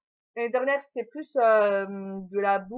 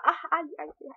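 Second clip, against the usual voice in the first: yelps of pain; 4 semitones higher than usual. Real, not acted. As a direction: yelp as the puppy nips. Puppy tries to bite her.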